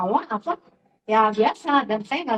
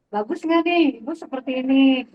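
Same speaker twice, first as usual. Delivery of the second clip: teasing question; 2 semitones higher, 6 dB louder than usual. Retold or imitated. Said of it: "minta menilai sekelas".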